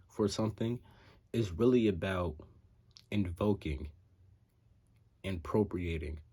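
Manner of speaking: talking with retainers in; slightly thick speech round a retainer; wearing a retainer. Real, not acted. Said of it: "I have my retainers in right now".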